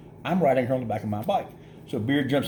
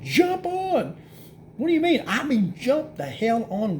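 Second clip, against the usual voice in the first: much higher, urgent hurry-up; a higher, urgent hurry telling a friend to hop on the bike; urgent order; 11 semitones higher, slower than usual. Retold or imitated. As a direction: push her to move now. Urging Amanda onto the bike.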